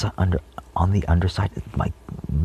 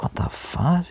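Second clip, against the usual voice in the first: much higher, incredulous yelp; stunned disbelief; 12 semitones higher, slower than usual. Retold or imitated. Reacting to the universe echoing his grief, stunned. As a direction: jump way up as if thrown off. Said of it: "I'm like".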